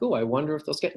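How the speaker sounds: mock uncertain question; tentative wondering. Shown as a demonstration. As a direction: wonder aloud as if asking. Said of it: "It's not like a question".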